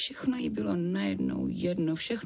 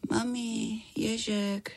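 put-on sleepy child voice; 10 semitones higher, much slower than usual. A narrator's reading. Feverish child talks in sleep.

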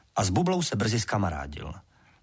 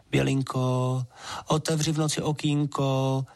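higher, coaxing plea under a window; pleading water sprite; 4 semitones higher than usual. A narrator's reading. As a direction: lovesick water goblin pleading at the girl's window. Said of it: "škemral dál Hastrman".

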